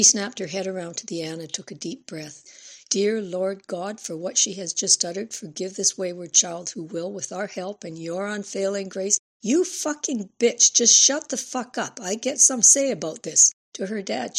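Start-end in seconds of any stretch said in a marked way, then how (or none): 2.9-9.2 prayer. A narrator's reading. Stepmother prays over the girl. 9.4-13.5 high, loud furious shouting. A narrator's reading. Girl screams at stepmother.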